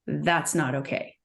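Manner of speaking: slow, soft and steady; calm boundary, no heat; kind but firm. Shown as a demonstration. Counselor demoing the kind firm response, slow and soft. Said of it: "Feel the difference?".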